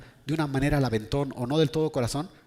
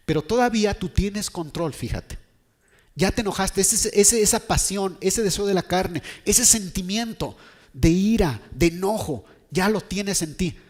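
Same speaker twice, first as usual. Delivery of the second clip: raised, higher-pitched preacher's urging; emphatic preaching; 6 semitones higher, 4 dB louder than usual. Acted. Preacher warning Caín that anger is already in him, emphatic. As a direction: press each phrase on the listener.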